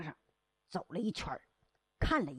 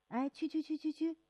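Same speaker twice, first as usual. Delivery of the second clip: softer, higher dismissive shoo; shooing away; 6 semitones higher, 4 dB quieter than usual. Acted. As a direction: wave the pests off. Watchman shoos them away.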